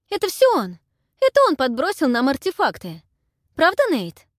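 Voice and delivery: high, loud blurting cry; panicked exclamation. A narrator's reading. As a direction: blurt the blame out. Heroine blaming in panic.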